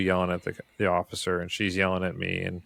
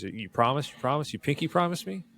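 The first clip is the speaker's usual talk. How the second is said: put-on rising higher on each you promise, childlike; mock pleading; 7 semitones higher than usual. Patient begging medic for a pinky promise, high pleading. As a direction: plead like a scared kid, voice climbing. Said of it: "And he says".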